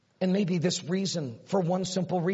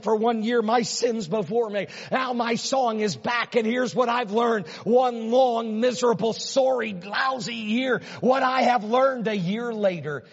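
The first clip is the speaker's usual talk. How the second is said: voicing David; 3 semitones higher than usual. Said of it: "David's crying and David's saying".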